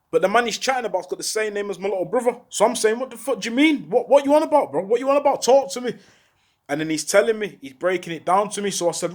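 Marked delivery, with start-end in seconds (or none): 3.0-5.9 higher, urgent questioning; retold alarmed disbelief. Asking the man what he means by the death news, in retold disbelief. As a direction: press for answers in shocked confusion.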